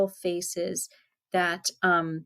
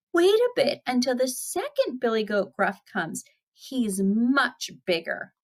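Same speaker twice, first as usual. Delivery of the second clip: higher, lightly voiced little goat; a hint of small goat voice; little goat bargaining; 5 semitones higher than usual. Youngest goat putting off the troll, lightly high-voiced.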